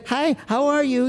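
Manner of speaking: put-on high-pitched baby talk greeting; sing-song hello to a baby. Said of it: "talk in that little crazy voice".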